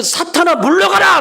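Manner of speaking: high, forceful rebuke; commanding cry. Acted. Preacher shows how to order Satan away, commanding cry.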